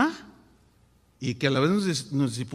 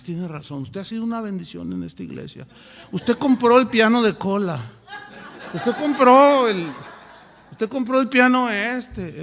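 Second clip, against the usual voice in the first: sweet-talking the big donor, lightly voiced; mock grovelling pastor.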